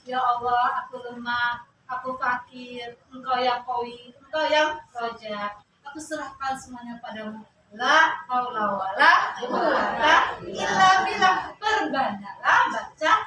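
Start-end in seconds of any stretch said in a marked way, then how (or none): 0.0-11.5 humble surrender. Shown as a demonstration. Models surrender prayer.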